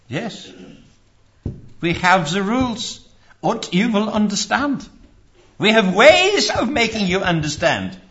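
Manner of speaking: sinister threat, hammed-up; cool foreign spy menace. Mocking authoritarian church voice.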